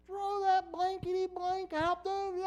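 slow, high mock coach yell; retold yell. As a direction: bellow it like an angry coach. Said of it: "the coach just starts screaming and yelling".

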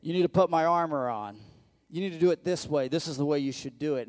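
high, loud, hammed-up royal voice; King Saul. King Saul sizing up little David, high and loud. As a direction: talk down to the boy like a booming king. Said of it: "He's like".

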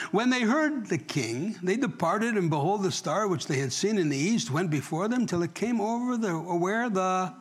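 slow, emphatic Bible reading; measured pulpit narration with stretched phrases; scripture reading. Real, not acted. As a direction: draw out key words as you read. Reads scripture aloud to congregation.

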